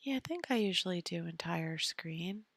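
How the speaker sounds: hushed whisper to herself; soft unvoiced self-talk. Real, not acted. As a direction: murmur it as you work it out.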